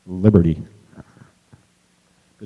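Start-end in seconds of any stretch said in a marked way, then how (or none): 0.1-0.6 rousing shout. Real, not acted. Rousing climax of speech.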